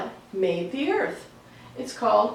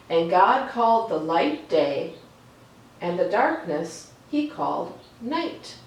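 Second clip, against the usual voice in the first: reading Genesis aloud. A narrator's reading. Reading the creation story to children, calm storytelling read. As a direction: let each line settle before the next.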